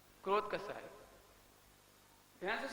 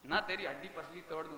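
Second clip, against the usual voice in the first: scolding mother; 3 semitones lower, 3 dB louder than usual. Retold or imitated. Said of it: "सारी मम्मियों ने अपनी बेटा बेटियों को कुछ ना कुछ कहा होगा".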